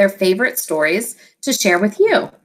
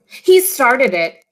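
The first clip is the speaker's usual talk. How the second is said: cried out; 2 semitones higher, 3 dB louder, much slower than usual. Acted. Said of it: "he cried".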